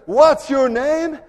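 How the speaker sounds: slow roaring question to a cowardly soldier; thundering demand. Acted. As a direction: bellow it like an angry king. King demands a third time.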